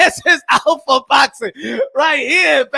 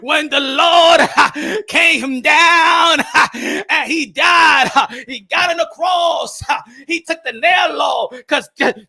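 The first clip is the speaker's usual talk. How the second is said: fiery preacher parody; slower than usual. Retold or imitated. Boxing streamer spoofing a shouting preacher for his chat, laughing. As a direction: preach it big and hammed-up while cracking up. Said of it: "If you want T D Jakes".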